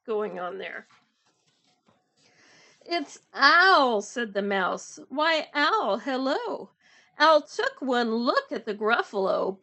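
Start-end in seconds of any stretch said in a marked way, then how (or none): 2.8-9.6 animated storytime reading with emphatic animal names; picture book read-aloud. A narrator's reading. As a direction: punch the creature's name, then settle into narration. Reads story with character voices.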